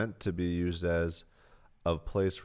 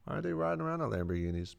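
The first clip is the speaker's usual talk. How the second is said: high wondering voice; 10 semitones higher, faster than usual. Retold or imitated. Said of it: "I'd be like".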